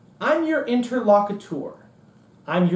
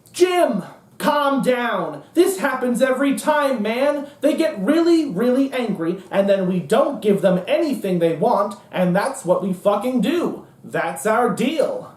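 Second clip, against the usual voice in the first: dismissive colleague. Retold or imitated. Party men telling Jim to calm down, dismissive. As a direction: wave off a worried coworker. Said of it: "everyone else in the room was like".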